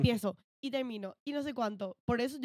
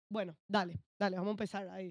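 quiet self-encouragement; 3 semitones lower, 8 dB quieter than usual. Retold or imitated. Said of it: "comencé a decir".

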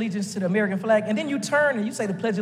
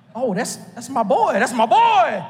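laughing; slower than usual. Retold or imitated.

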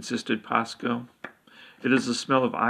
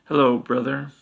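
a touch louder, curt hello; mildly barked hello; barked greeting; 3 dB louder than usual. Acted. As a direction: snap the greeting at the brother. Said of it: "barked the queen".

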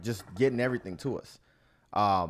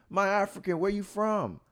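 much higher mock seller voice; pushy street seller; 11 semitones higher than usual. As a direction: lightly mimic a hustler asking where you're from. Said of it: "So I'm like".

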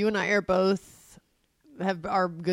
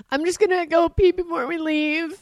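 put-on high, louder little-boy voice; imitated upset child; 9 semitones higher, 5 dB louder than usual. Mother imitating her son escaping to cry, high kid voice. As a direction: mimic a kid making an excuse to get away.

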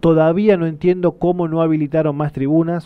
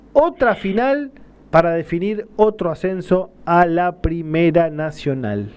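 out of breath; 4 dB quieter than usual. Real, not acted. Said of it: "Ay, me quedé sin aire".

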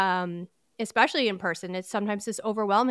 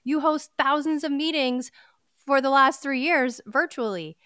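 higher, exasperated scolding of herself; pitched-up mock rant at her own nerves; mock self-scolding; 4 semitones higher than usual. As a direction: berate yourself like a frustrated coach. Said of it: "I was getting on myself again".

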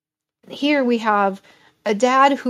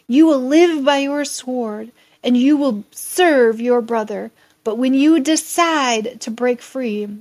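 a lightly voiced old father, raised and grave; prophetic old father; 3 semitones higher, 4 dB louder than usual. Isaac giving Esau his lesser blessing, grave raised voice. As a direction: pronounce the hard fate.

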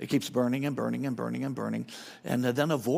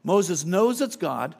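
louder and higher, slowly hammering each word; emphatic preaching; 6 semitones higher, 8 dB louder, slower than usual. Real, not acted. Pastor pressing the point to the church, loud and slow. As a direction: drive it home, slow and loud. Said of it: "preaching at full force".

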